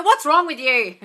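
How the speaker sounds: mock accusing demand; comically tactless way of asking; blunt check-in. Shown as a demonstration. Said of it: "I go".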